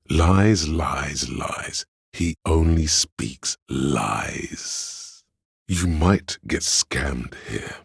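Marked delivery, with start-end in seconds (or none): 0.1-5.2 theatrically accuse, drawing out the final word; hammed-up accusation with a drawn-out finish; melodramatic denunciation. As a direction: trail off through the repeats, then stretch the last word long. Dramatic denouncing of a liar.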